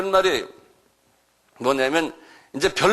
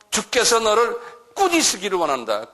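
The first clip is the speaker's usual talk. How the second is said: "원한다" pronounced higher as a firm rebuke; stern rebuke; 5 semitones higher than usual. Acted. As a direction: rebuke the devil from above. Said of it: "그렇게 말해놓고는 그 다음에".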